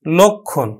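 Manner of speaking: লক্ষণ as lokkhon, falling at the end; closed o vowel. Shown as a demonstration. Teacher telling students how we pronounce it, lokkhon. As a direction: keep the first vowel of লক্ষণ a round o. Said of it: "আমরা উচ্চারণ করব".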